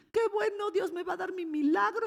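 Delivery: high-pitched imitation of eager excitement; playfully imitated joy; mock delight. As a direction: gush hopefully, pitched well up. Mimics believers expecting a miracle.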